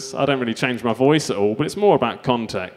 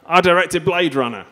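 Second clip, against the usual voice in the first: Wrigley Scott; 5 semitones higher than usual. Acted. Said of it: "this one is Wrigley Scott".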